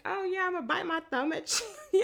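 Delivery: playful dare breaking into a laugh; laughing taunt. Acted. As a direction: taunt them, cracking up as you finish. Acting out a thumb-biting taunt.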